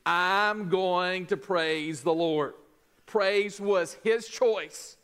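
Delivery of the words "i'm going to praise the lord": determined vow. Retold or imitated. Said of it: "A determined vow David made".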